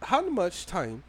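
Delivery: very slow, drawn-out imitation African accent; put-on accent like T'Challa. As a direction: read it grandly in a T'Challa-style African accent. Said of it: "I'm gonna read this in, in the accent".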